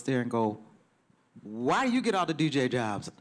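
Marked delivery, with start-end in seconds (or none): 1.4-3.1 retold worked-up nagging; imitating pestering complaint. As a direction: pitch leaping up on the why. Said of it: "he's kind of very up".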